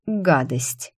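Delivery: lightly voiced seductive man; low velvet voice. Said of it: "низкий бархатный голос сказал".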